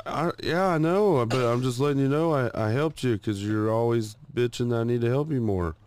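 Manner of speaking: high, pleading self-defence; retold defensive protest. Retold defensive reply in quarrel.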